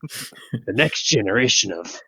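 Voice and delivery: lightly gruff soldier voice; a hint of a gravelly old soldier; Snake voice. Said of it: "why did you give him the fucking snake voice".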